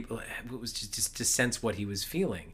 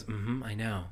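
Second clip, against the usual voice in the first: knowing psychic; 4 dB quieter, slower than usual. Retold or imitated. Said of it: "I appreciate when a psychic goes".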